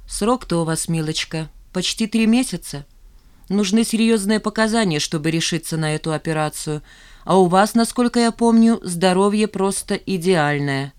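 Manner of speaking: a hint of a patronising doctor; condescending doctor. Doctor refusing Nina's request, condescending. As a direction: lecture her coolly.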